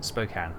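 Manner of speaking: SPOKANE as "spoke-ANN", long o, short a; corrected pronunciation. Shown as a demonstration. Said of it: "is how you say it".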